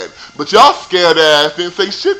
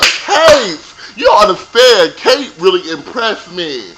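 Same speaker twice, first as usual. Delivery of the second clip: excited cheer; 2 semitones higher, 5 dB louder, slower than usual. Retold or imitated.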